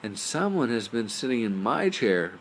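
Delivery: lightly voiced mama bear; Mama Bear's medium voice. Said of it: "in her medium-sized voice".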